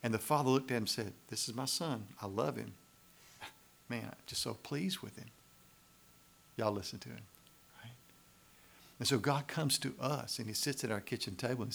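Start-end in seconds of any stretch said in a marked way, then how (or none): 1.3-5.3 softer, fond father's voice; a proud father's quiet delight; tender fatherly pride. Pretend. The Father speaking of Jesus.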